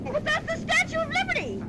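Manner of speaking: high, loud, thrilled; excited. Acted. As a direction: marvel at the sight. Thrilled at landmark.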